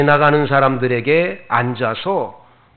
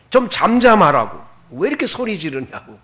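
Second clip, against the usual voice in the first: loud, raised rebuke that eases off; scolding; 3 semitones higher, 5 dB louder than usual. Acted. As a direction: imitate an annoyed crowd hushing someone. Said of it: "왜 자꾸 이렇게 소리를 지르느냐고 꾸짖습니다".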